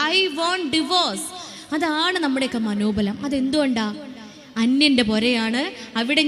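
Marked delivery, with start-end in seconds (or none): 0.1-1.2 sulky bride. Retold or imitated. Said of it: "ഇങ്ങനെ ചെയ്യുന്ന പറഞ്ഞാൽ".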